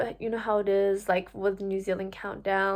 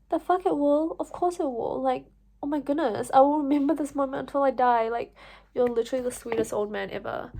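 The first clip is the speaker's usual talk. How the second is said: higher, touched and emphatic; thanking the sweet old man; gushing; 4 semitones higher than usual. Retold or imitated. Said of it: "And I was like".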